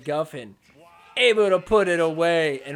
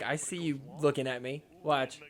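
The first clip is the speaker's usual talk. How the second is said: quiet mock threat; 4 semitones lower, 9 dB quieter than usual. Acted player's cool stare-down.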